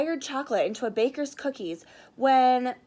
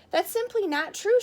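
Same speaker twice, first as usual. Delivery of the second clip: higher, louder protest; crying out; 8 semitones higher, 4 dB louder than usual. Acted. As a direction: protest it, indignant. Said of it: "Sugar Belle cried".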